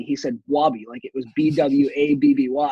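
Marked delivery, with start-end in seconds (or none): 0.5-0.8 Wabby with a W for the B, B W A B B Y; Boston coach's Wabby. Retold or imitated. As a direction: say Wabby instead of Bobby. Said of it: "He couldn't say Bobby".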